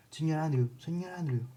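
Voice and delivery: put-on a boy yells for Mr. Andrew; shouting. Boy scratching with a stick calls out, shouting. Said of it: "se rasca la panza con un palo y grita".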